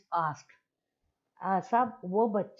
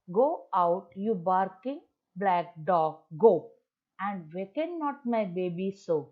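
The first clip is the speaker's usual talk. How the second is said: louder, slow commanding recital; shooing the dog; 3 dB louder, much slower than usual. Retold or imitated. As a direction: drive the dog off with the words. Mother chasing the dog again. (कुत्ते को भगाती माँ, ज़ोर से)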